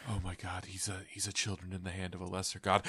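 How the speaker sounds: fast, crying mock wail; sobbing prophecy. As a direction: sob out the vision. Dying hog prophesying.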